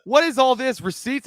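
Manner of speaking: high, loud puzzled question; mock puzzled voice. Friend quoting the briefcase scene, high and baffled. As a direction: ask it baffled. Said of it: "he was like".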